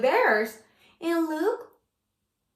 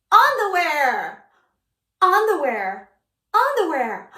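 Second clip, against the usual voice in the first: loud announcing; excited exclaiming; 2 semitones higher, 6 dB louder than usual. Shown as a demonstration. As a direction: call out "Underwear!" with gusto. Reading title with flourish.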